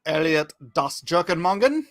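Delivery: playful fake-German name mangling; host introduces guests on the stream, mock German accent. Put on a light joke German accent. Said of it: "why I'm talking like this".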